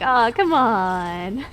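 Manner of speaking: drawn-out, slow mock plea; stretched-out letdown, replayed for laughs; retold pleading. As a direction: groan it out slowly in mild exasperation. Retold plea after a missed kiss.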